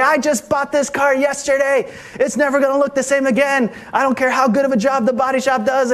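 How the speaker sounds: high-pitched, frantic retold rant; hysterical rant. Businessman ranting to the officer about his car, hysterical. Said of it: "the man was just hysterical".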